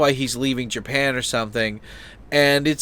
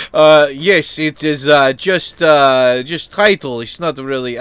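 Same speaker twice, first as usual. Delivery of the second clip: put-on loud, halting Russian-sounding accent; 6 dB louder, slower than usual. Joking about that line for executions, slipping into a Russian accent. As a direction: slip into a rough Russian accent. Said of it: "why do I sound Russian?".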